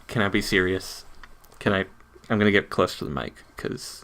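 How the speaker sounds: soft and quick, confiding; low, quiet voice. Real, not acted. Podcaster moving closer to the mic, hushed. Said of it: "talk in my regular voice".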